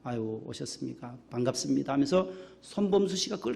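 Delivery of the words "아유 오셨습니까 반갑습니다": soft, beaming welcome, much quieter; hushed, friendly hello to each arrival; gentle, glad greeting at the door; bright usher greeting. Retold or imitated. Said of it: "밝은".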